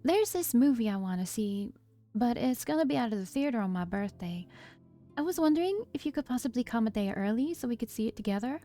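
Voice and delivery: lightly voiced little sister with a country lilt; a slipping country accent, tentative request; attempted country accent. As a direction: ask hopefully in a light country twang. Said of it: "country accent that I was trying to do".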